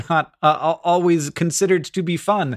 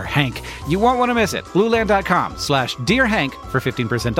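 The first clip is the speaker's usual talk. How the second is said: ad read. Acted. Sponsor read at show start.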